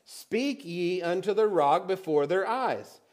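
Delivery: "Speak ye unto the rock" read slowly and deliberately; slow down and press each word; slow, deliberate scripture reading; slow emphatic reading. Shown as a demonstration. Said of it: "Is that what your Bible says?".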